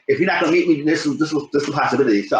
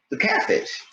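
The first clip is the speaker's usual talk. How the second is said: whispered reveal; 5 dB quieter than usual. Real, not acted. Punchline reveal.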